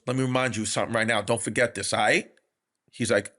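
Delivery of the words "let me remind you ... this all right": imitated fond advice, lower and quick; low, earnest mock mentoring; Tracy Morgan. Imitating a star advising a comic before a show, mock-loving. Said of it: "he said it so lovingly and affectionately".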